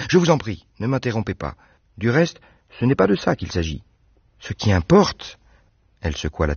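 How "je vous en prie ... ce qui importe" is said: put-on higher, eager young woman's voice; Anne protesting. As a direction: insist he has it all wrong. Anne continues.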